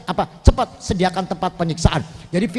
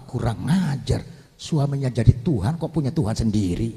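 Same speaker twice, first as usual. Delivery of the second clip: angry Pharaoh; 9 semitones lower, 5 dB quieter than usual. Acted. Preacher voices angry Pharaoh.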